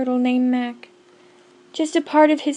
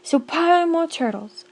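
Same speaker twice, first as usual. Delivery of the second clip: higher, louder royal order; commanding bellow; 5 semitones higher, 5 dB louder than usual. Acted. Yertle orders more turtles, a mild bellow. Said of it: "he bellowed and bayed".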